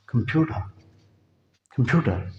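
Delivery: कंप्यूटर with a soft d; American computer. Shown as a demonstration. Teacher showing American computer. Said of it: "डी में तब्दील कर देते".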